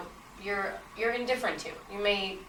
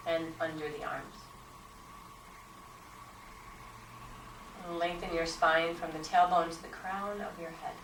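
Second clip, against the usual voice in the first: unhurried guidance with long pauses, growing softer; guided meditation; 4 dB quieter than usual. Acted. Teacher guiding students into posture and breath, guided meditation. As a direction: settle them gently into stillness, leaving space between instructions.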